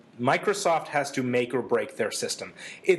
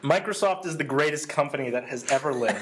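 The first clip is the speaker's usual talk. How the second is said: sarcastic. Acted. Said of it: "I'm noticing some sarcasm".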